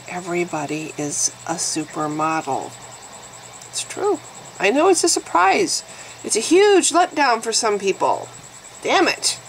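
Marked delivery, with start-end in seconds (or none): 3.7-9.4 high mock-surprised sarcasm; sarcastic. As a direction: feign shock at the news.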